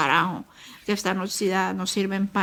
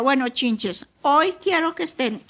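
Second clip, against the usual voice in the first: lightly voiced big brother, a bit higher and playful; a touch of the teasing older brother promising a treat; mother imitating her son teasing his little siblings, mildly playful; cheerful big brother; 4 semitones higher than usual. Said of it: "le decía".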